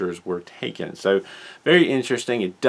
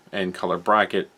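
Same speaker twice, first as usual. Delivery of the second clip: talking through hiccups; hiccuping between words. Real, not acted. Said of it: "I've got the hiccups now".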